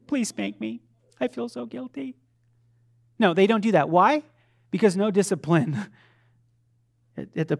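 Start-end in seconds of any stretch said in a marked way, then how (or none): 0.1-2.2 lightly voiced pleading kid; a hint of a meek child begging; mock child. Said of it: "My kids don't come up to me and say".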